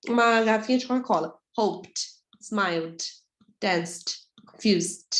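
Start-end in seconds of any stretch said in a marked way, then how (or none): 1.6-5.1 "Hoped" dito "houpt", final leve de explosão; silent -ed ending. Shown as a demonstration. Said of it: "como se fosse uma pequena explosãozinha". (pronúncia correta, sem pronunciar o E)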